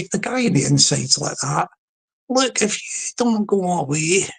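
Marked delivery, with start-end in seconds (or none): 2.3-4.3 put-on slow warning in a Scottish accent; mock threat with a Scottish lilt. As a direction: warn the caller off, Scottish and drawn out. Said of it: "doing this with a Scottish accent".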